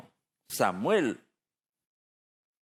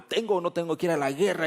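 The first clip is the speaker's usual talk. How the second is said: quick, frantic question, a little higher; desperate; 4 semitones higher, faster than usual. Retold or imitated. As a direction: Saul pacing in panic, rushing the words. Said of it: "él se desesperó".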